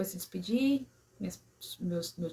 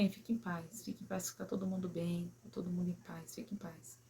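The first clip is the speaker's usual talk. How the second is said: retold tender goodbye, voice dropping away; soft reassurance; 10 dB quieter than usual. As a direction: quietly soothe your dying mother, letting each phrase sink. Reassuring her dying mother.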